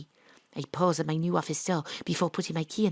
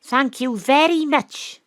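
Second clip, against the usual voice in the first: sarcastic thanks; 8 semitones higher, 8 dB louder, much slower than usual. Acted.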